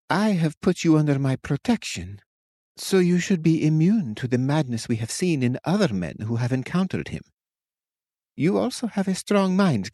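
gently encouraging; tender witch. A narrator's reading. Witch reassuring the captain, tender. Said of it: "Her tender tone".

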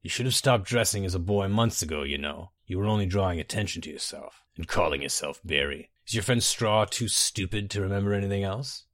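lightly voiced suave villain, amused; Symmachus.

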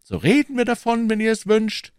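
high-pitched, patient concession; high voice humouring a friend. A narrator's reading. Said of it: "entgegnete Aramis mit Geduld".

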